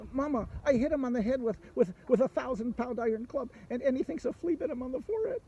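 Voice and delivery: high, amazed telling to mama; astonished dragon. Acted. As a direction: marvel at it in disbelief, high.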